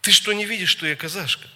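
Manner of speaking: indignant challenge, pitch jumping up; retold angry questions, rising in force; aggressive. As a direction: snap back offended, mocking an aggressive woman. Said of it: "так агрессивно".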